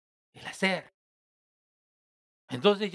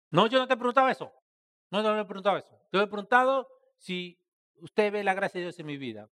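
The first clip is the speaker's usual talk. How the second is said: indignant retort; 3 semitones higher, 4 dB louder, faster than usual. Retold or imitated. Quoting a church man who protests, indignant and fast. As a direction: snap back in offense.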